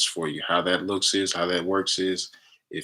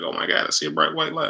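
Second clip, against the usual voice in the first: put-on excited girlfriend; 9 semitones higher than usual. Girlfriend freaking out retold.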